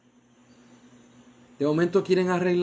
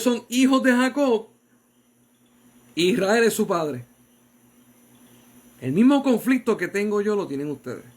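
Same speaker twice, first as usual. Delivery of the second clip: a father pleading with his sons; fervent voiced patriarch; Jacob's fervent plea; 4 semitones higher than usual.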